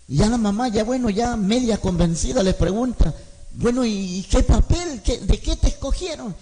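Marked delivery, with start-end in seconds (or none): 3.5-6.4 half-convinced mother. Retold or imitated. Madre medio convencida pregunta.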